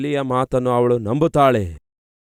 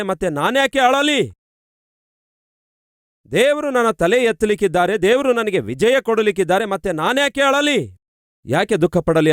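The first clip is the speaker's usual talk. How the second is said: higher, triumphant inner voice; joyful resolve; 5 semitones higher than usual. Acted. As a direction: lift it like faith just won over tears. Hannah voiced, resolving to stop crying. (ಹರ್ಷದ ದೃಢ ನಿರ್ಧಾರದ ಧ್ವನಿ, ಎತ್ತರದ ಸ್ವರದಲ್ಲಿ)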